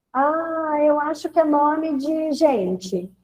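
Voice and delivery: lightly voiced child, drawn out; imitating a pupil. Pupil guessing the kind of word, lightly imitated child. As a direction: stretch out a child's tentative guess. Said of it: "Eu pedi pras crianças".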